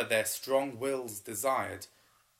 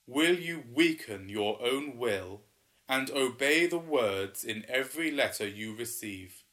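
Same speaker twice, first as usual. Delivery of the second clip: booming water spirit; 3 dB louder than usual. Acted. Waterman questions the pair.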